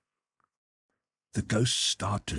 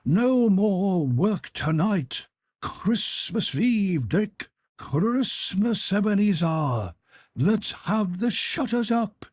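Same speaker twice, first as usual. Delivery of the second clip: much higher, louder hearty call; a rich, fat, jovial old master calling out; jovial Fezziwig voice; 11 semitones higher, 3 dB louder, slower than usual. A narrator's reading. Old Fezziwig calls to his apprentices, jovial and loud. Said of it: "cried old Fezziwig".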